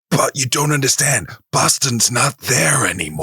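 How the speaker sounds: exaggerated desperate protest; hammed-up film impression. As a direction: plead melodramatically, like a TV miniseries.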